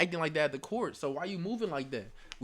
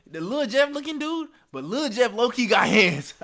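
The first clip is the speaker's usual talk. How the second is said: amused excitement; 8 semitones higher, 9 dB louder than usual. Real, not acted. Laughing about fighter.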